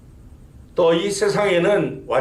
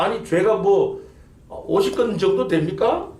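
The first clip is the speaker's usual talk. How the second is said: imitated scoffer, pitched higher with querulous sarcasm; mocking, argumentative sneer; 5 semitones higher than usual. Scoffer taunting evangelists about how heavy sin is, sarcastic and argumentative. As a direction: challenge dismissively, like a retold sceptic picking a fight. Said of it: "빈정대며 하는 말이".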